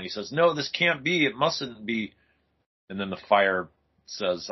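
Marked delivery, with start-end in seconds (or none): 0.3-2.1 mildly panicked denial, higher at first; acted comic-book disbelief, lightly played; freaking out. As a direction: read it as a man starting to freak out. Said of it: "David's kind of freaking out".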